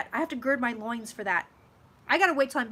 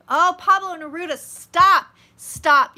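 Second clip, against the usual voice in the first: 1 overjoyed protest; 6 semitones higher, 13 dB louder, slower than usual. Real, not acted. Overcome by a favourite poet.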